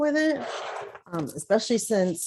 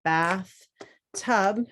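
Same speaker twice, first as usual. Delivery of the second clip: "bath" and "tub" as separate beats with a pause between; syllables split; 2 semitones higher than usual. Shown as a demonstration. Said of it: "we write our syllable lines".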